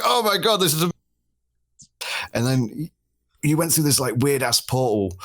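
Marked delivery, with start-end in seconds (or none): 0.0-0.9 high, breathless awe at the bow; wide-eyed retold wonder; amazed. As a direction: gasp it out, suddenly amazed. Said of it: "and I was like".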